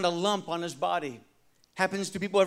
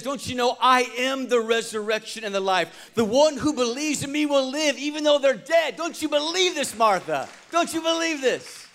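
higher, pressing questions to Martha; lightly voiced Jesus urging Martha; a hint of Jesus pleading; 4 semitones higher than usual. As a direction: urge her to believe.

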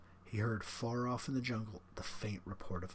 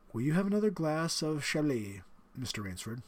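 higher, louder, smug aristocratic villain; the general, menacing; 4 semitones higher, 4 dB louder than usual. Acted. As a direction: savour the threat like a proud host. General offers wine.

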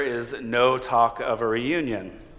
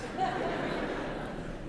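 imitated gasp; 12 dB quieter than usual. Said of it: "my mom went like this".

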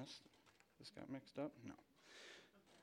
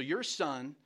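"your" pointedly stressed before "son"; imitated wife leaning on "your"; 2 semitones higher, 4 dB louder than usual. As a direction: put the blame on "your". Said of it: "it's, it's my son".

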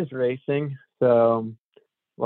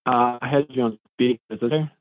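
speakerphone echo; hollow phone sound; echoing tunnel. Real, not acted. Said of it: "you sound like you're in a tunnel right now".

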